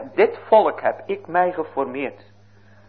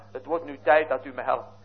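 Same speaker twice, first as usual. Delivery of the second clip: normal talking voice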